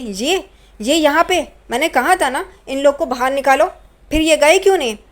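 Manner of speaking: angry scolding. Retold or imitated. Angry aunt scolding neighbours.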